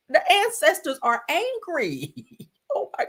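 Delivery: laughing nervously through the words; a guilty, uneasy chuckle. Real, not acted. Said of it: "It's like a nervous laugh".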